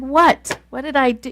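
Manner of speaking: retold baffled reaction; baffled protest. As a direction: act out innocent bewilderment. Acted baffled reply to husband.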